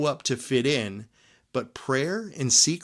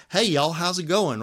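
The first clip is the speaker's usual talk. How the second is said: casual Southern drawl; 4 semitones higher than usual. Retold or imitated. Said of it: "rednecks with thick Southern accents".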